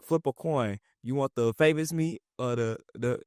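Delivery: lightly acted, worked-up challenge; getting upset. Quoting a rapper as he gets upset on the song, mildly worked up. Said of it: "He's getting upset".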